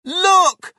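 very high excited yell; one high, loud call; shouting. A narrator's reading. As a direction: cry out loudly to get attention. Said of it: "George shouted".

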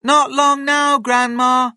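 high, loud sing-out to another room; calling out. A narrator's reading. George calls to his waiting grandma, high and loud. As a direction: call it loudly up high. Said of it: "he called".

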